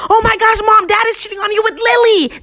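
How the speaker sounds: shrill-pitched scream held at talking volume; retold scream. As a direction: re-enact screaming shocking news to mom. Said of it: "I screamed".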